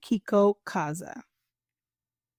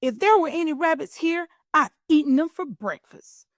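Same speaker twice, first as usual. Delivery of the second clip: sly fox; 7 semitones higher, 4 dB louder, faster than usual. Acted. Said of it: "thought the fox".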